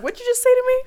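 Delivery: high indignant challenge; tough guy voice. Acted. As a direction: square up, offended. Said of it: "Will comes over like".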